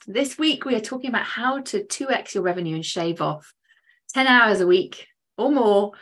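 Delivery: upbeat host read of the guest's bio; podcast intro. Acted. Host introduces her guest to podcast listeners, upbeat announcer read. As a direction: welcome the listeners and sell the guest.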